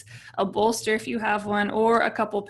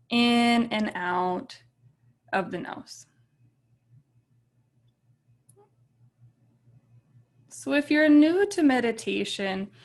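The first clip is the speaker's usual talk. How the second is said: calm meditation guide with long, settling pauses; guided meditation. Real, not acted. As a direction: ease them gently into stillness, leaving space between phrases.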